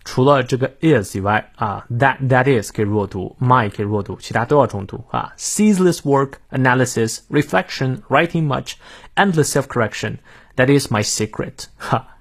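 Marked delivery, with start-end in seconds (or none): 5.4-11.7 stressed content words, lighter "is my"; heavy word stress. Shown as a demonstration. Teacher shows learners which words take stress, emphatic stressed reading. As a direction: stress nearly every word of "Ceaseless work, analysis, reflection". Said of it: "这段话几乎每一个词都要重读".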